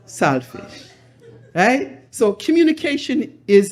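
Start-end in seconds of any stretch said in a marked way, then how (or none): 0.1-0.9 flat. Retold or imitated. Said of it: "all you had to say was".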